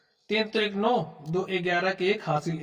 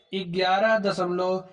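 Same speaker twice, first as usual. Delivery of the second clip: slow digit reading; much slower than usual. Shown as a demonstration. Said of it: "दशमलव के बाद ऐसे ही पढ़ा जाता है".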